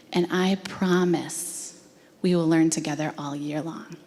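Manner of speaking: imitating a teacher gently setting a child straight; measured promise, with pauses between phrases; tender reassurance. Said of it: "this brilliant teacher goes like this".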